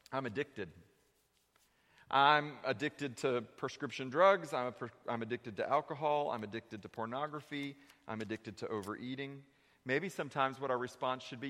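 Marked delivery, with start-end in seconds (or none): 0.1-9.4 quiet confession. Acted. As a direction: admit it quietly, like it costs you. Voiced confession of addiction.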